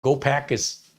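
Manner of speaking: rough attempt at Wisconsin accent; lightly put-on Wisconsin accent; mock Packers fan's Wisconsin accent. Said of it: "I don't do the accent very well".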